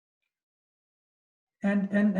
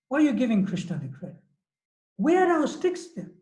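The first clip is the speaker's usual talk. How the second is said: incredulous retort, pitched up; a touch of mock indignation, claiming the credit; mildly indignant; 3 semitones higher than usual. Father disputes who held the hill, mildly indignant. Acted indignant rebuttal to brother.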